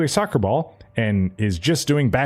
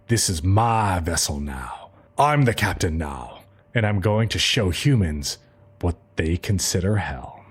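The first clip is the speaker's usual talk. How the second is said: villain voice; 5 semitones lower than usual. Acted. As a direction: growl it like a possessor. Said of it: "And Evil Eye is like".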